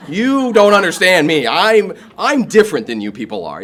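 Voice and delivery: acted-out, insistent objection; indignant protest. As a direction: protest loudly that nobody gets you. Retold protest to AA members.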